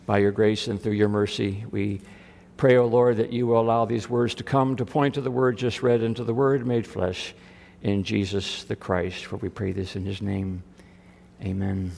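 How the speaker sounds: low-pitched, measured prayer; spoken prayer. Acted. Pastor praying with the congregation before the sermon, solemn prayer.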